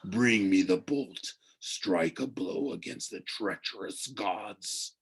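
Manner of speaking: slow, fading hungry command; slow command, falling away; hungrier ancient voice. A narrator's reading. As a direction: urge him slowly to strike. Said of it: "The voice became hungrier".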